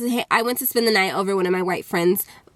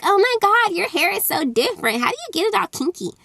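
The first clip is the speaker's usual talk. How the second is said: put-on high, gushing, nosy girl; mock a wide-eyed schoolgirl, higher up; nosy white girl gushing over hair; imitating a nosy girl; 9 semitones higher than usual. White girl asking about hair.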